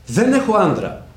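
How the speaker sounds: mild, high, slow voicing of the woman; imitating the woman. Woman's quoted reply.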